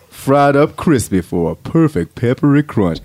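lightly voiced ad announcer. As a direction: pitch the food in an easygoing voice. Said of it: "announcer voice is this".

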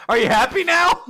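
high mock-exasperated question. Cohost mocking Denji's chant, high and exasperated. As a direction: toss it off annoyed. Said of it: "You're like".

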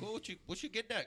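high-pitched, hammy Irish dad; awful Irish accent. Acted. Father questions daughter's boyfriend, awful Irish accent. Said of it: "that's my awful Irish accent".

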